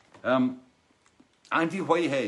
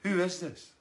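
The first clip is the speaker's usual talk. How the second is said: confused question; 5 semitones higher than usual. Retold or imitated. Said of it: "then goes".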